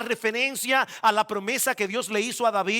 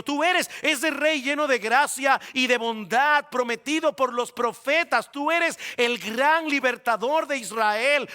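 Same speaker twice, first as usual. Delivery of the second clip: earnest pleading; 3 semitones higher than usual. Acted. Bartimeo's imagined plea to Jesus.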